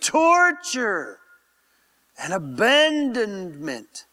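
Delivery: slow, weighty words with rising swells; impassioned prayer. Real, not acted. Pastor praying over the cross, slow impassioned swells. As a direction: lean hard on each sin, drawn out.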